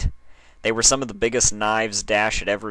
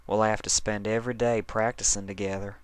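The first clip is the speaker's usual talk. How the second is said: cooing; 2 semitones higher, 4 dB quieter than usual. Acted. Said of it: "Applejack cooed, using a voice Dash had only ever heard her use while selling apples".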